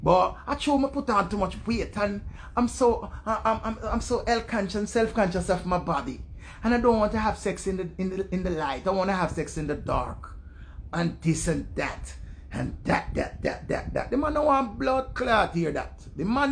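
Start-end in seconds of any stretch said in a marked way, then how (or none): 0.0-10.4 halting, stammered excuses in proper English; mock self-conscious woman. 10.9-14.1 mock droning excuses. Trails off mocking her excuses.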